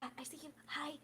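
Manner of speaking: soft, hushed reassurance to a big excited animal; calm him down gently, almost under your breath; soothing. Acted. Octavia soothing her excited pet Jupiter, soft and hushed. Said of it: "so he's like".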